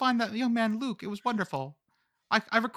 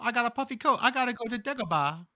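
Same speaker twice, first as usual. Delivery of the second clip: George Lucas impression; 5 semitones higher than usual. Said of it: "I'm George Lucas".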